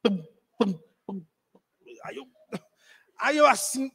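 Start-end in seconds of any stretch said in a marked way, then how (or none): 0.0-1.3 softly spoken thumps; imitated heartbeat. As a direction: mimic a heartbeat with soft, spaced thuds. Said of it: "o coração, fazia tum".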